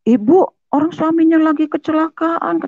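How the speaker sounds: high-pitched shocked reproach; tetangga kaget menegur. Retold or imitated. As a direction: exclaim in disbelief at the wife. Shocked neighbours scold the wife. (teguran kaget bernada tinggi)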